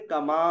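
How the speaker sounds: कमा with a light k and long open aa; thin alif. Shown as a demonstration. Teacher giving the thin example, कमा light and held. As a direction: hold the end of कमा, unrounded. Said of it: "तो इसको पढ़ेंगे".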